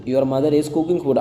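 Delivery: moderately slow, connected teacher delivery. Shown as a demonstration.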